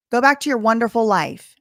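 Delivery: dripping sarcasm, quoting him; mock bitter brush-off; sarcastic. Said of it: "Sarcasm. I'm quoting him".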